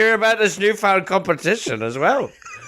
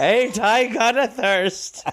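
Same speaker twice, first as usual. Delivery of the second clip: put-on town drunk; 4 semitones higher, slower than usual. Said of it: "repeating Malloy's line".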